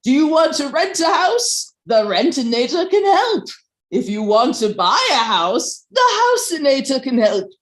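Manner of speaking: upbeat infomercial pitch. Acted. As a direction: sell it like a late-night infomercial host. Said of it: "in the style of an infomercial".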